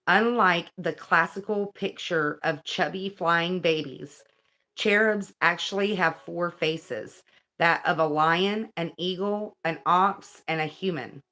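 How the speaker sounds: measured, deliberate read-aloud; guidebook reading. Acted. Reading about cherubim angels to viewers, measured read-aloud. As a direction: read it out clearly, phrase by phrase.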